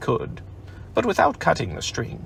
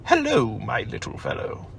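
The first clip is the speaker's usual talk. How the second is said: kindly. Acted. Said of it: "in a kindly way".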